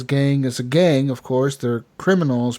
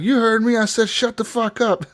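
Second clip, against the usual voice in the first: higher-pitched mock threat; mock confrontation; 8 semitones higher than usual. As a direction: imitate a drunk picking a quarrel. Acted bar quarrel.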